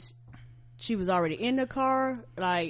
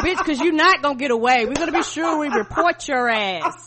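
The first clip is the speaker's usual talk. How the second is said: laughing mock quote; 3 semitones higher, 5 dB louder than usual. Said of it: "Be like".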